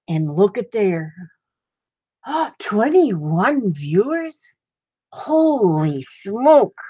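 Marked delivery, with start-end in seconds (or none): 2.2-6.8 slow, drawn-out gasp of amazement; amazed. Real, not acted. Grandma spotting viewers on her livestream, slow amazed gasp. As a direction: stretch each word out, hardly believing it.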